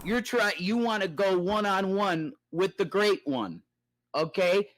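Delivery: a light hint of a wrestling promo boast; The Rock. Streamer hyping Brett as a champ, lightly voicing a wrestler taunt. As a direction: toss it off like a half-hearted wrestler taunt. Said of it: "As The Rock would have said it".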